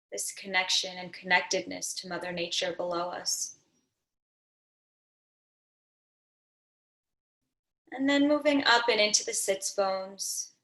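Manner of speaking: unhurried meditation guide with long pauses between phrases; guided meditation. Real, not acted. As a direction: gently lead them into settling, phrase by phrase.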